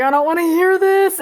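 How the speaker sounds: playfully anguished protest; retold distress. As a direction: raise pitch as if blocking it out. Distressed by mom's crying, retold.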